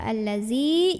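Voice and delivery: "allazi" with a buzzing z for the dzal; wrong z sound. Shown as a demonstration. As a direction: say "allazi" with a plain z, tongue behind the teeth. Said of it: "jangan dibaca".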